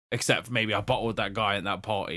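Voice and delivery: chuckling as the words come out; laughing through it. Retold or imitated. Retelling the villain's line with a laugh. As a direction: laugh while saying it. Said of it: "he was like".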